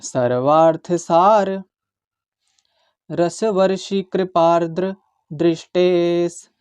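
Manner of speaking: slow, careful Sanskrit verse recitation; measured shloka recitation. Shown as a demonstration. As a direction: chant each syllable slowly and clearly. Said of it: "इसका मैं उच्चारण सिखाऊंगा आपको".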